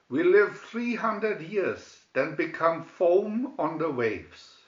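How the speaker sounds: a king lecturing his daughter with loud authority; Sea King father. Acted.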